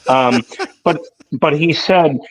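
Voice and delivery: talking while walking slowly; carefully walking with hot coffee. Real, not acted. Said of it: "I'm walking really slow here because I'm spilling my".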